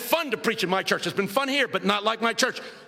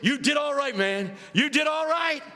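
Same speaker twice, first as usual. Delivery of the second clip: higher-pitched congratulation; lightly voiced approving pastor; pastor's praise; 5 semitones higher than usual. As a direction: give a hearty pat-on-the-back compliment. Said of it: "My pastor hit my knee. He said".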